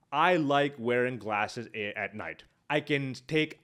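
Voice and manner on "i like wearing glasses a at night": slow, thinking the sentence through in your head; slowly repeating it to yourself, fading at the end; slow, mulling it over. Shown as a demonstration. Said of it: "take that sentence in my head".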